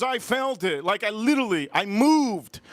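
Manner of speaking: high, insistent imitation of the driver; mock complaint. Woman insisting she felt the bump, high mock complaint.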